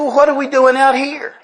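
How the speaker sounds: a light Tennessee redneck twang, puzzled. Retold or imitated. Buddy in the grass asking the keys owner, light Tennessee redneck voice. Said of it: "so I've changed it to Tennessee redneck".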